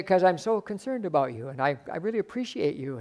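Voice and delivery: softly, gently reassuring a friend; a hushed, caring plea; tender concern. Retold or imitated. Preacher voicing himself comforting a hurting man, soft and gentle.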